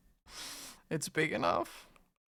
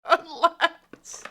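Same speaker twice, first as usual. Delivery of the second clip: whiny high plea; 10 semitones higher than usual. Pretend. Teasing chat about gifts.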